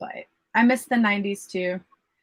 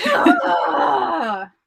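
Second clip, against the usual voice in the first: mock sob cry; 7 semitones higher, 5 dB louder than usual. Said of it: "I'm trying not to cry".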